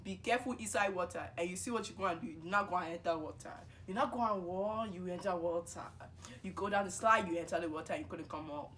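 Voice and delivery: lightly voiced scolding mom in her accent; a hint of a mother's told-you-so lecture; imitated mother. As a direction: imitate mom's accented warning. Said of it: "And my mom is like".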